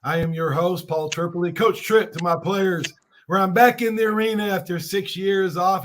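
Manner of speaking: hoarse, worn-out voice. Real, not acted. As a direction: talk through a voice lost from coaching. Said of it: "as you can tell by my voice".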